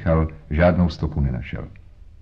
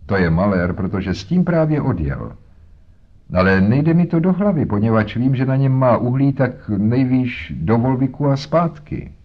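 lightly voiced boatman's wife. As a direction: talk like a harried mother. Voices Mrs Smith.

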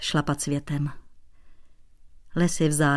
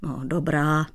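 softening; 2 semitones lower than usual. Acted. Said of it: "měkl Dratvička".

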